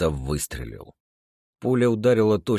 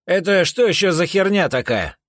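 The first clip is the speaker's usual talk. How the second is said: much higher and louder, stunned; shocked outburst; 14 semitones higher, 7 dB louder than usual. Acted. The copy on the cot, shocked and loud. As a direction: blurt it out in shock.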